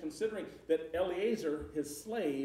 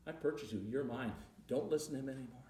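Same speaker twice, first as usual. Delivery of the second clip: softer, quick reassuring words; gentle new master; 3 semitones lower, 5 dB quieter, faster than usual. Retold or imitated. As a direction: reassure him quietly. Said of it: "the new master comes out and says".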